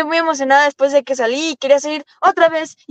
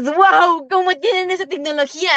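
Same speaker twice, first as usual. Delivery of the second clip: higher-pitched, lightly acted wonder; retold amazement; 4 semitones higher than usual. Driver recalls seeing the simulator technology, mildly awestruck. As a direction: re-enact marveling at something unbelievable. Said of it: "yo me quedaba así asombrada".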